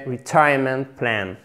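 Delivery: "retirement" stressed on the second syllable, re-TIRE-ment; model stress. Shown as a demonstration. Teacher introducing the term, careful stress. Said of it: "Accent tonique sur la deuxième syllabe".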